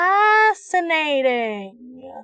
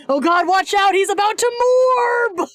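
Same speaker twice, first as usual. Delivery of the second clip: high, loud mock alarm; excited teasing; 7 semitones higher, 4 dB louder than usual. Real, not acted. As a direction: warn them, hyped and laughing.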